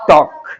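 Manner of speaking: टॉक said firmly, silent l, like "tawk"; टॉक spoken as a model word for the class; correct pronunciation of talk. Shown as a demonstration. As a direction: say टॉक clean and loud with no l sound. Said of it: "लेकिन होता क्या है?".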